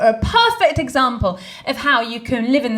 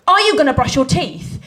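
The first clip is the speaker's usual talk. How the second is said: impatient tone; 4 semitones higher, 4 dB louder than usual. Retold or imitated. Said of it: "he didn't like my tone".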